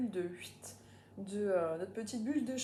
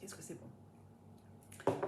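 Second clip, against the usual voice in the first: whispered; 6 dB quieter, much slower than usual. Real, not acted. After tasting cider.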